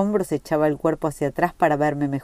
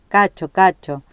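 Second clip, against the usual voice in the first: high, loud, giggly calling of a name; laughing like a little girl; 4 semitones higher, 6 dB louder than usual. A narrator's reading. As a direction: tease him with a girlish laugh. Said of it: "riendo como una chiquilina". (riendo como una chiquilina)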